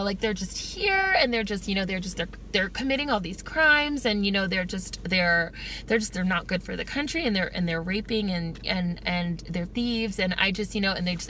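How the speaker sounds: hesitant, mild mock-polite bigot; polite Klan member. Skit's Klan member listing his complaints, mildly and haltingly. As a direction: imitate a bigot politely stumbling through complaints. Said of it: "This is what he was saying in the skit".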